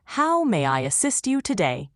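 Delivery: polite, proper English nanny impression; lightly put-on storybook nanny voice; Mary Poppins. Shown as a demonstration. AI offers the presenter help, as a lightly voiced English nanny. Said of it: "In my best Mary Poppins voice".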